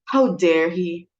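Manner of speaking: outraged. Acted. Guest cancels at last moment.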